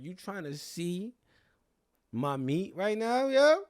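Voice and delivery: slow, high challenge climbing to a loud "yo"; mock confrontation. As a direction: draw it out high, then burst at the end. Retold confrontation, mock outrage.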